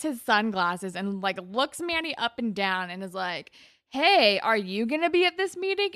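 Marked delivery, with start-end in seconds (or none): 3.9-5.9 higher-pitched mock flirty greeting; imitating a come-on.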